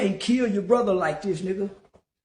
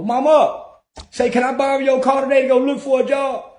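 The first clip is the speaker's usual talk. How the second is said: sweet-talking son; 5 semitones higher, 5 dB louder than usual. Retold or imitated. Voicing himself asking mama.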